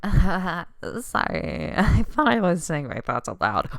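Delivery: loud, laughing mock apology; hammed-up, giggly loony voice. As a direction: imitate a babbling loony apologizing. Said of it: "you sound like a loony".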